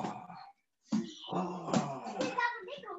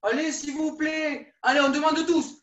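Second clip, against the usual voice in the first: pleading shout, louder and higher; 5 semitones higher, 4 dB louder than usual. Pretend. Coach begging the zoo keeper to let the kids in, loud pleading. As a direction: beg the keeper at full voice for all to hear.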